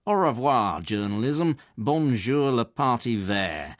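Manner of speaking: put-on bonjour le parti vert mangled in a Yorkshire accent, slow; Yorkshire-accented French. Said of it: "Yorkshiremen can massacre French too".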